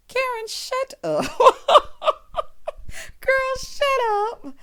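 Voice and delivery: high squealing laugh through the words; laughing disbelief. Real, not acted. Laughing at Karen's line in the show. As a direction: crack up, then tell her to hush.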